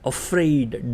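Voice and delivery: અફ્રેઇડ said as English afraid, stress on the second part; teacher modelling અફ્રેઇડ for students; model pronunciation. Shown as a demonstration. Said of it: "તમારો ઉચ્ચાર બનશે".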